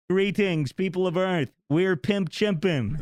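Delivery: high, slow alien announcer voice; booming alien overlord. Pretend. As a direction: boom it over a mothership loudspeaker. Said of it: "mothership with a loudspeaker".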